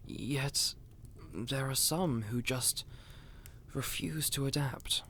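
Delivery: breathy hushed aside; hushed complaint. Acted. Steward confiding to his guest, in a hushed aside. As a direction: drop to a near-whisper, sharing a grievance. Complaint about stubborn nobles.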